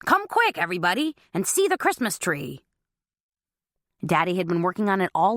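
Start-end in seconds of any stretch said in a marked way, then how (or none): 0.0-2.6 calling out. Acted. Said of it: "Daddy's voice rang out".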